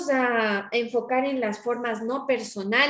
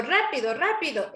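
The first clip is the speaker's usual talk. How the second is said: urgent order; 2 semitones higher than usual. Shown as a demonstration. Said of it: "Eso estoy dando una orden".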